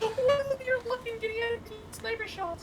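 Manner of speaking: choppy, broken-up robot sound; glitching internet voice; robotic glitchy audio. Real, not acted. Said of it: "your internet turning you into a robot".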